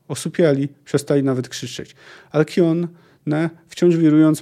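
dramatic read-aloud of a sea tale; story narration. A narrator's reading. Sailor recounts a storm to his jarl, story narration. Reads a long quote from a novel.

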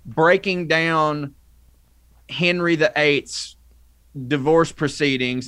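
high, drawn-out objection; indignant protest. Acted. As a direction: object slowly in mock indignation. Acted indignant reply goes on.

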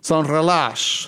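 slow, careful sans relâche with the nasal sans; careful French repeat. Shown as a demonstration. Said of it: "I'll tell you, sans relâche".

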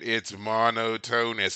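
monotonous slow, as MON-oh-TONE-us; mispronounced word. Retold or imitated. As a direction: drag out monotonous the wrong way. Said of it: "sure enough, I went".

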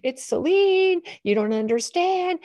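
high, wailing mock protest of an upset girl; hysterical child. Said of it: "made Zoe more hysterical".

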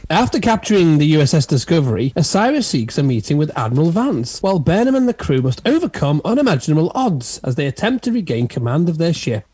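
swooping, emphatic episode teaser voice; dramatic synopsis read. Acted. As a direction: read it like a TV trailer blurb.

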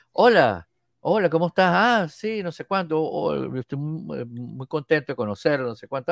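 high, gushing hello, trailing into babble; flustered greeting. Retold or imitated. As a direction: mimic an eager, awkward first meeting. Acted awkward greeting of a star.

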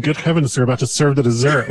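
fast mock panic; mock crisis line. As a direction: rattle it off in panic. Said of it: "somebody bursting in and saying".

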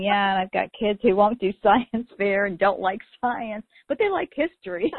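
rising, laughing through the words; laughing retort. Retold or imitated. Host quoting herself to a curriculum writer, laughing. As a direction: laugh at your own kids. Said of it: "And I'm saying".

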